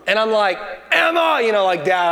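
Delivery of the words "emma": higher, drawn-out dad calling out; mock-stern fatherly call. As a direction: play the dad summoning his child. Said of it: "I like to get that dad voice".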